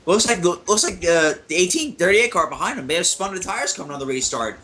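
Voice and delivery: breathing hard into the mic; audible breaths between words; heavy breathing. Real, not acted. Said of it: "I'm sorry for my heavy breathing here".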